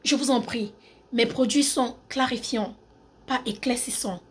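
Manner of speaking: measured French accent demo; polite French accent, softening at the end. Shown as a demonstration. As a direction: put on a French-from-France accent. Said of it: "Accent français".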